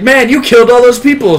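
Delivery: imitating a nagging companion; mock whiny woman. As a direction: whine it as her. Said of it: "She was like".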